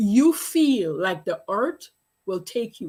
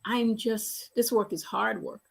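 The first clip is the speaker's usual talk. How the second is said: much softer, weary voice of the mother; quiet tired denial; 7 dB quieter than usual. Retold or imitated. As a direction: insists she's fine, under her breath. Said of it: "she says".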